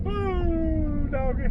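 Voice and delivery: very high, drawn-out whoop; high-pitched self-satisfied holler; gloating whoop. Real, not acted. Gloating whoop after his charm story.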